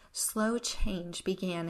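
Slow drawn out and emphasized; stress on Slow. Real, not acted. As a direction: lean on "Slow" and stretch it. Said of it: "I emphasize the word slow".

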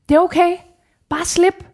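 calling out to her to let go; retold shout. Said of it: "som jeg råbte". (råbende, højere stemme)

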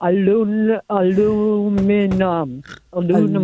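aluminum comes out as alunum; aluminum mispronounced alunum; struggling aluminum. Shown as a demonstration. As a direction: fumble through aluminum. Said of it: "Say it again, Darlene".

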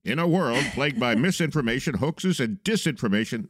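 dramatic trailer announcer; movie trailer voice. Shown as a demonstration. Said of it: "That's my movie trailer voice".

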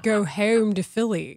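Philly-style fronted vowel in "home"; imitated Philly accent. Host mimicking a buddy back from Philly, Philadelphia accent. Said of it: "no idea what he was saying".

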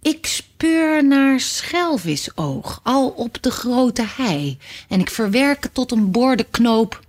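lightly voiced old man, slow at first; a hint of a dreamy old man drawing out his words; old man speaking. Old man answers the narrator.

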